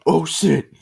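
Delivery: put-on loud girl voice; girl's startled cry. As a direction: yelp it out in fright. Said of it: "Girl one".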